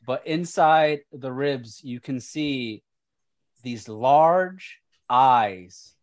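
slow, deliberate scene-setting with pauses; game master narration. Acted. Game master describing the corrupted child to players, ominous narration. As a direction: lean on key words, leaving pauses between phrases.

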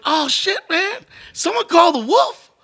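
high, loud thrilled brag; cocky excitement. Retold or imitated. Friend calls for the wolf, hammed-up eager reply. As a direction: crow that the fixer has arrived. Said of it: "And I'd be like".

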